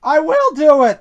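loud, high alternating engine chant; two straining engines in rhythm; puffing together. A narrator's reading. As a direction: chug between protest and determination. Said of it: "they puffed together".

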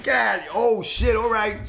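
half-laughing, caught off guard; slow amused disbelief; laughing surprise. Retold or imitated. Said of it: "I'm like".

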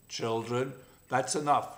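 a hint of a stern lioness ending the fight; lioness growling. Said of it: "growled the lioness in a meaningful way".

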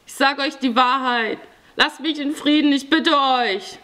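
high, urgent pleading; frightened victim's high-pitched appeal; desperate begging. A narrator's reading. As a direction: beg them, voice climbing high. Victim begs robbers to leave.

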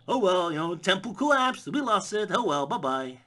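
breezy shrugging tone; dismissive Indy. Acted. Indy shrugging off lost temple, breezy.

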